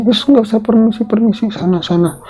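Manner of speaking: high, scornful shooing; Ratmi chasing away. Acted. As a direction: shoo her out cruelly.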